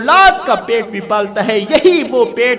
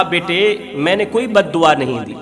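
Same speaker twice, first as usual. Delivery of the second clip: put-on gentle old holy man; 4 semitones lower than usual. Holy man calmly denies cursing.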